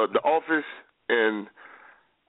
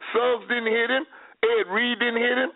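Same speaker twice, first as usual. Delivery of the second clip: emphatic, higher-pitched insisting, each name hammered; insistent; 10 semitones higher than usual. Real, not acted. Arguing with his co-host, insisting nobody ever hit him. Heated sports debate, insisting.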